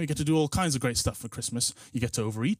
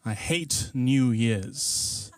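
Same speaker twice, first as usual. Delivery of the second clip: very slow; 2 semitones lower, much slower than usual. Shown as a demonstration. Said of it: "There, I said it a third".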